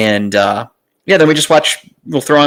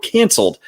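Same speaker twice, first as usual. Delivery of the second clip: canceled pitched up high with a mocking lilt; scare quotes; 9 semitones higher than usual. Mocking a news headline, canceled in scare quotes. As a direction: sneer the word canceled like a silly headline. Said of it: "the emphasis on the word canceled".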